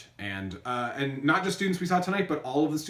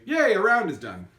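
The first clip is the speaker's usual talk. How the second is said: cheery yay; 4 semitones higher, 4 dB louder than usual. Shown as a demonstration. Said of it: "we'll say".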